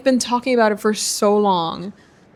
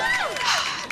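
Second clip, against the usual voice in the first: very high, soft squeal of breath; high squealed sigh; 6 dB quieter than usual. Real, not acted. Shopper has just clicked checkout, high squealed sigh. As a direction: let out a tiny high squeal.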